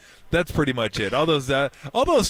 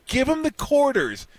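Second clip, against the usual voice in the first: slow, high, laughing push; high amused plea; laughing urging; 11 semitones higher, slower than usual. Retold or imitated. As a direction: urge them through laughter. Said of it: "I go".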